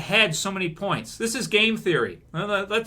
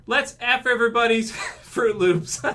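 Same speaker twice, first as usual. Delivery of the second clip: mocking showrunners, laughing; 5 semitones higher than usual. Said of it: "and they said".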